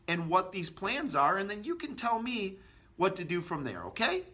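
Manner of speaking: friendly, agreeable, lifting up on the final okay. Shown as a demonstration. Agent agreeing with customer, then pivoting, agreeable tone. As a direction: agree warmly, then steer back. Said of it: "with an agreeable tone".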